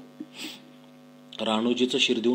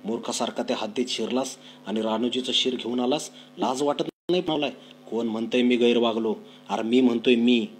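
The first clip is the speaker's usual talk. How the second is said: louder, clipped scolding; angry snap; 4 dB louder than usual. Acted. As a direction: snap back at the son. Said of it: "बाजीबा Khot खेकसला". (खेकसून रागाने बोलणे)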